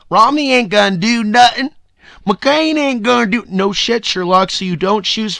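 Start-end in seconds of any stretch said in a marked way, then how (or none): 0.1-3.4 higher, louder mock retort; scornful dismissal. Arguing with someone who didn't vote for Obama, scornful. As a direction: throw it back in mock disbelief. Acts out dismissive imagined reply.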